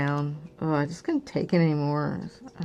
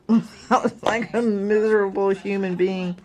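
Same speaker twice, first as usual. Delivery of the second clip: laughing; 4 semitones higher, 4 dB louder than usual. Real, not acted. Laughs while describing her misery.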